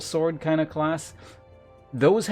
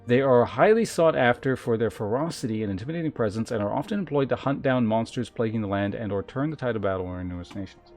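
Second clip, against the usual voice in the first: emphatic, measured reading of lore; game text read-aloud. Acted. Streamer reads gladiator class lore to chat, emphatic read-aloud. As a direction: announce each class description with weight.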